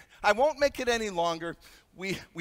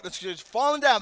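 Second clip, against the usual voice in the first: excited; 3 semitones higher, 4 dB louder than usual. Retold or imitated. Reliving the plane drop.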